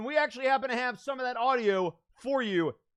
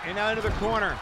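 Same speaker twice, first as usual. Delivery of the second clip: excited live ring commentary; wrestling commentator; 2 semitones higher, 4 dB louder than usual. Acted. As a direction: call the match blow by blow.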